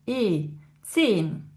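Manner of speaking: "zehn" with a long, drawn-out vowel. Shown as a demonstration. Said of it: "on a une voyelle longue". (« zehn » avec une voyelle longue)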